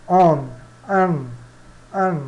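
nasal vowel on, then an twice; French nasal on and an. Shown as a demonstration. Teacher demonstrating the French nasal vowels. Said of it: "É".

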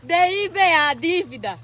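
"Dívida" shouted instead of diva; stubborn shout. Real, not acted. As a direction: yell "Dívida" defiantly. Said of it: "Como é que ela sabe falar dívida".

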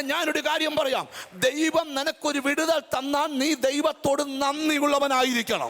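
usual speaking voice

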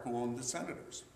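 ordinary talk

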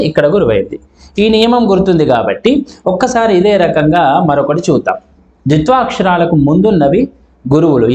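ordinary talk, nothing marked

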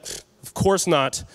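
slow, mildly salty reply with a pfft. Acted. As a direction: grumble it with a dismissive puff. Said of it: "they're salty".

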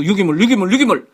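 유기물 repeated deliberately after a stumble, rising in pitch; practising pronunciation. Real, not acted. Teacher retries a word he fumbled, practising the pronunciation of 유기물. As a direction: drill 유기물 over and over to get the tongue round it. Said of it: "발음이 이렇게 안 되냐고".

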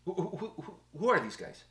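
a light mock French accent; hammed-up French accent asking who. Host joking with co-host, mock French accent. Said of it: "with my French accent".

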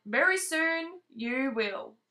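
slow gentle promise; drawn-out kind promise; slow reassuring. Acted. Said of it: "said Rabbit".

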